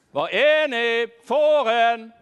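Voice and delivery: loud call into the distance; loud open call across the field. Acted. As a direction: shout for the sheep to answer. Shepherd calling for lost sheep.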